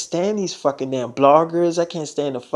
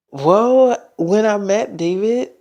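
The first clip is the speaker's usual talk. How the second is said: higher and louder nervous blurt of well; 4 semitones higher, 4 dB louder, slower than usual. Retold or imitated. Selena starting to confess the pregnancy to her mom, loud and high. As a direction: burst out with the confession.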